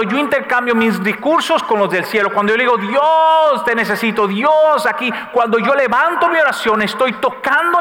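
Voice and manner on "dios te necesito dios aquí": pleading cry. Acted. Calling out to God in prayer.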